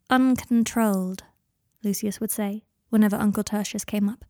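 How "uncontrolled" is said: slow, loaded uncontrolled; imitating father's weighted, slow disapproval; strange intensity. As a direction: say uncontrolled slowly as if it means more. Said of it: "with a strange intensity".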